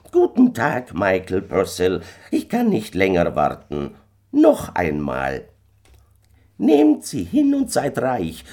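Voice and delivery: ominous little stranger, loud and drawn-out; kleiner Fremder. A narrator's reading. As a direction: pronounce a slow, threatening fate. Stranger threatens poverty as fate. (unheimlicher kleiner Mann, laut, gedehnt und drohend)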